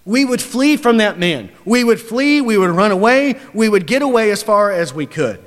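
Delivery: loud, high preaching; full-force pulpit voice. Acted. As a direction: press it home to the congregation. Preacher's emphatic run.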